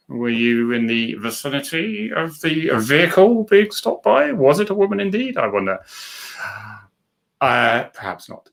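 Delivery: mock detective. Mock interrogation of viewer Jackie.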